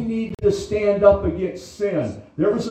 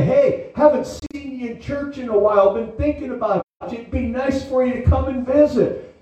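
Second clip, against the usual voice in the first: a lightly voiced friendly text invite; casually kind, coaxing someone back; nice friendly invite; 3 semitones higher than usual. Pastor to a lapsed member, mildly friendly. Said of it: "I'm doing it in a nice way".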